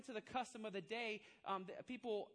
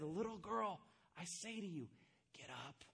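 pastoral voice; 4 semitones lower than usual. Retold or imitated. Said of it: "kinda with, like, a pastoral voice".

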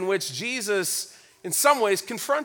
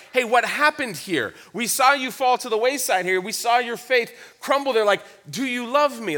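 mildly confronting, earnest questioning; 2 semitones higher than usual. Retold or imitated. Jesus confronts Peter over his failure, mildly challenging. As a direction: press him with a genuine question. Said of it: "Jesus is confronting him and saying".

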